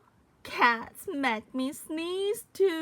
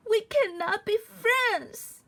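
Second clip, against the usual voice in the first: crying shout; 5 semitones higher, 3 dB louder than usual. Acted. Tearful goodbye.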